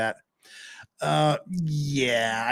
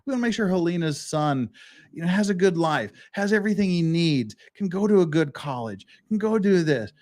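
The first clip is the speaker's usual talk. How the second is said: higher, earnest wording of what a caring man would say; proper phrasing; 5 semitones higher than usual. Pretend. Voicing what Baldwin should have said about the son, higher and earnest. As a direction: say it like you actually care about the boy. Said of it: "Instead of saying".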